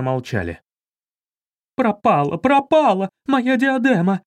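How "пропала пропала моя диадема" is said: shrieking, much higher and louder, building; hysterical cry. Acted. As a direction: wail that the jewel is gone. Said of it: "истерично закричала похитительница". (истеричный крик)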